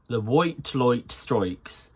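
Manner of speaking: slow "white light strikes" with full OY vowels; overdone Irish OY. Shown as a demonstration. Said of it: "So it's not".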